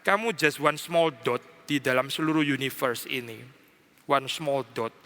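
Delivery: low, soft, far-off voice putting a man in his place; quietly and gravely, speak as God from far above; a hushed divine rebuke. Acted. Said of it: "Seolah Tuhan mau mengatakan".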